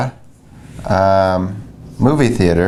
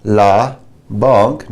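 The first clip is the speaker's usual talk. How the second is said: slow model sentence; slower than usual. Shown as a demonstration. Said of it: "I'm going to the bank".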